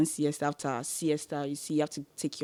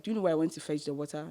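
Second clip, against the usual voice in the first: quick, softer retold question; politely lowered challenge; toned-down retort; 5 dB quieter, much faster than usual. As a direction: say it fast with the tone down. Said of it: "In a polite way".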